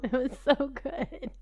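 like remembering something delicious; dreamy delight. Real, not acted. Savouring memory of taste.

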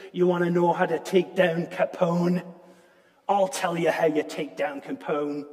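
lightly imitated Scottish accent, self-mocking; Scottish brogue. Preacher quoting Sean Connery in a weak Scottish brogue. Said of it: "in his awesome Scottish brogue".

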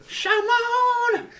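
high, loud shaman call; shaman cry. Pretend. Friends competing for the best shaman cry, high loud call. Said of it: "who can do the best shaman".

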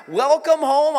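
high rising welcome home, welcome lifted. Shown as a demonstration. Greeting newcomers, a high rising welcome. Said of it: "I'll say it again".

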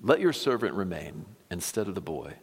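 measured, earnest reading of a plea; expressive Bible reading, phrases starting strong and falling away; scripture reading. Acted. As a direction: read scripture aloud with weight and pauses. Reads the scripture chapter aloud.

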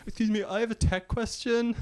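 lightly voiced podcast nerd; a hint of a fussy tech fan; nerdy podcast fan. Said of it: "a load of nerds just like".

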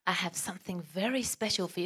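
put-on spa woman in a vague Greek accent; attempted Greek accent. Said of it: "I've gone into an accent already".

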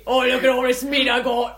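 a hint of a backwoods butcher; gleeful redneck voice; hillbilly killer voice. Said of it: "She's done five voices in one minute".

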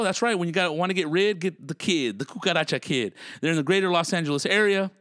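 punchy podcast sponsor read. Real, not acted. Host plugging pest control and hotel sponsors, ad read. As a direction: sell it like a casual radio spot.

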